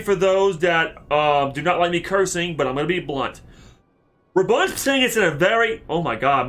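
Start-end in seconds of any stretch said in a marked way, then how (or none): 4.3-5.8 quick, slurred tumble of words; words run together by accident. Real, not acted. Player fumbling through a summary, slurred. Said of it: "I slurred my words so bad".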